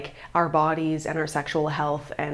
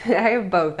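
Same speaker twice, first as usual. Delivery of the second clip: "I" stressed with a laugh; 3 dB louder than usual. Real, not acted. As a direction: laugh on "I have both". Repeats answer with a laugh.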